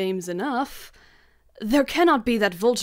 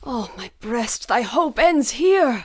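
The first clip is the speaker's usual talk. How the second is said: despairing cry; 3 semitones higher, 5 dB louder than usual. Acted. Macduff despairing farewell.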